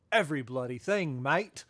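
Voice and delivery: a light, hammed-up Australian accent on every bloody thing; shitty Australian accent. Host quoting the artist in a mock Australian accent. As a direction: toss it off like a mock Aussie bloke, Australian accent only lightly put on. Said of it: "I probably said that with a sh-, shitty Australian accent".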